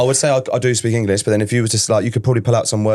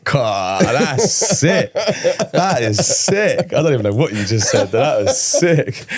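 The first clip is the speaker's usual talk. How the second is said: amazed; 4 semitones higher, much slower than usual. Real, not acted. Amazed by Latvian sentence.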